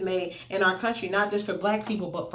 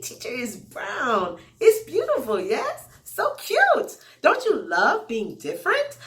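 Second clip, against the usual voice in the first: sweet teacher voice. Retold or imitated. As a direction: sweet-talk a young pupil, pitch lifting on praise. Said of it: "I explained the exact same way".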